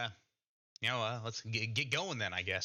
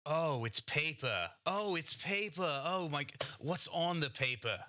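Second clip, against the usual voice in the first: mildly awestruck character voice; excited discovery; 5 semitones higher than usual. Acted. Game master voices character discovering paper.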